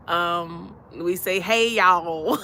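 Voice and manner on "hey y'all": loud, drawn-out Southern "hey, y'all"; Southern greeting. Shown as a demonstration. Showing how folks down south say hello, Southern greeting. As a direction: holler a friendly Southern hello. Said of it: "down south we say".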